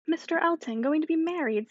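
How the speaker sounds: a touch of startled surprise; mild astonishment. A narrator's reading. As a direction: echo the news in mild disbelief. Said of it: "as soon as she could speak".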